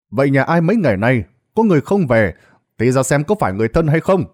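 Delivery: village loudspeaker announcement. Acted. Village loudspeaker calling the villagers about the corpse, brisk announcement. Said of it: "tiếng loa làng lại vang lên".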